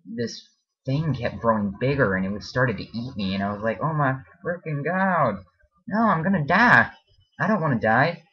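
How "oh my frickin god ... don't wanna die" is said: much higher, louder mock-terrified cry in a put-on accent; hammed-up dream panic, yelling in an accent; cartoonish terror in a silly accent; panicked accent. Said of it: "why I used the accent".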